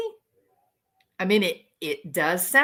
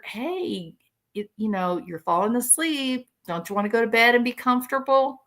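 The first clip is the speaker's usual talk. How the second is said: a gentle, tender nudge toward bed; loving; faster than usual. Pretend. Host mocks up a loving bedtime nudge, gently. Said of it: "lovingly telling a family member".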